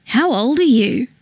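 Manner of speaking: slow, needling fake sympathy; a sly hint of false concern; mock concern. A narrator's reading. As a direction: ask it like you pity him but don't. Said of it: "brow furrowed in mock concern".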